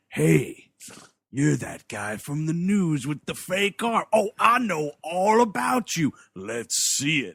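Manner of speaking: put-on nosy drunk at the bar; slow, needling barfly accosting a stranger. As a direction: heckle from the end of the bar. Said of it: "this barfly down at the other end of the bar".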